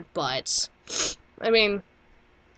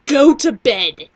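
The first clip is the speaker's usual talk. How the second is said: mom voice; 6 dB louder, slower than usual. Retold or imitated. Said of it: "Mama Rose says".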